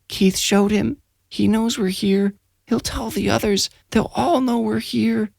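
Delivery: put-on high, hushed, eerie child voice; frightened boy. A narrator's reading. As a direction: murmur it like a sleepwalking child.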